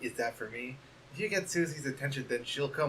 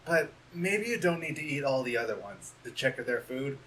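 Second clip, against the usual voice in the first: much softer, hushed and shy; timid hushed valentine; soft shy letter; 3 semitones lower, 5 dB quieter than usual. Acted. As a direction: read it gently like a bashful friend.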